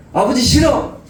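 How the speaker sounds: mock child tantrum. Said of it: "이렇게 할 수 있지만은".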